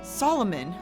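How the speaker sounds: hushed, eerie storytelling. A narrator's reading. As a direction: narrate a gothic horror tale. Horror story narration with music.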